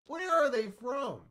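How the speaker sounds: slow, drawn-out mock yell; mock shout. Retelling her suspicion to chat, a slow mock shout. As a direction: act out the suspicious outburst.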